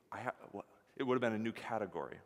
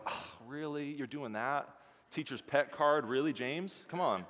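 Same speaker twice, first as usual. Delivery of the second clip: mock-indignant, incredulous; light put-on disbelief at a teacher's pet; indignant classmates; 4 semitones higher than usual. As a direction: act out miffed classmates, half joking. Disgruntled classmates mocking teacher's pet.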